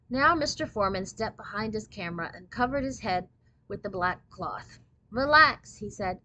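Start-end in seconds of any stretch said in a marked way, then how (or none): 5.1-5.8 louder, higher-pitched instruction; impatient photographer. A narrator's reading. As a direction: call out orders to stiff sitters. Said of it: "He sounded like an impatient schoolteacher".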